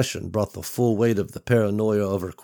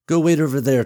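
firm order; 6 semitones higher, 6 dB louder, faster than usual. Acted. Mother orders son away.

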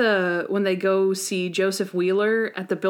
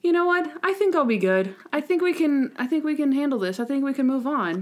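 higher, brightly resolved Monk; mock acceptance; 6 semitones higher than usual. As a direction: convince yourself you're fine. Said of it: "And acceptance".

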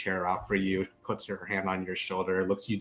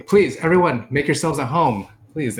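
louder, higher host's call to the room; welcoming call out; 7 semitones higher, 11 dB louder than usual. Acted. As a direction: call everyone in warmly. GM voices Mina calling everyone.

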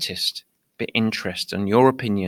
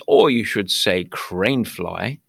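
aristocratic British; 3 semitones lower, slower than usual. Retold or imitated. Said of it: "in my very aristocratic British voice".

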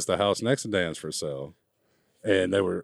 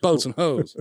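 high movie quote; 7 semitones higher than usual. Retold or imitated. Movie quote repeated higher.

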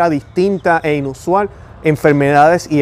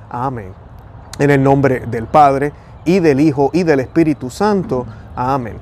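prayer; 2 semitones lower than usual. Acted. Leads viewers in Hail Mary.

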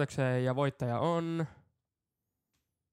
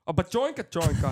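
louder, higher excited gibberish; performed reaction; 6 semitones higher, 6 dB louder than usual. Pretend. Reacting to bikini photos with an excited higher burst. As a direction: act out a big wow reaction. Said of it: "Mä reagoin asian kuuluvalla tavalla".

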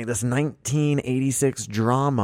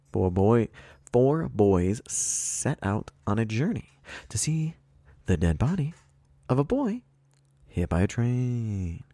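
slow comedian's delivery, pitch leaping up on phrase ends; Seinfeld; slower than usual. Acted. Host re-reads the movie synopsis to the guesser, mock stand-up comic. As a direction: break it into halting, singsong comic phrases. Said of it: "It's my Seinfeld voice".

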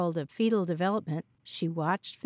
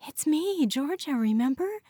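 panicked; 7 semitones higher than usual. A narrator's reading. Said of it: "She started to panic".

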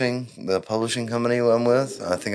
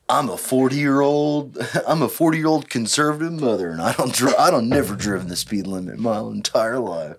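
put-on girl AI voice. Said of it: "the girl A I voice".

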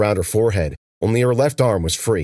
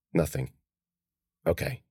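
inner thought; 5 semitones lower, 9 dB quieter than usual. A narrator's reading. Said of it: "she thought".

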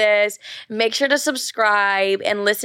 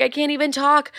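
higher, mock overwrought mother; mock dramatic; 5 semitones higher than usual. Mom on the car ride, mock dramatic. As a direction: put on a dramatic too-upset-to-speak voice. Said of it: "being so beyond dramatic".

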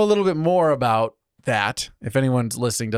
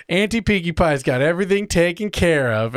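higher, lightly imitated cartoon pony; Pinkie Pie; 6 semitones higher than usual. Retelling the pony's reply to her friend, lightly imitated character voice. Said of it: "And Pinkie Pie goes".

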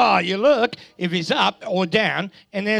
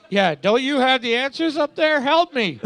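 mock panicked plea; 6 semitones higher than usual. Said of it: "he just looked at me so scared".

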